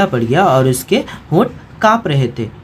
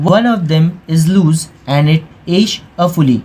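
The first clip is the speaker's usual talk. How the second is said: slow textbook reading; much slower than usual. A narrator's reading. Teacher reads English text aloud.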